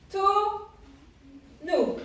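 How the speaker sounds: drawn-out word. Shown as a demonstration. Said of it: "On entend combien de O dans tonneau?".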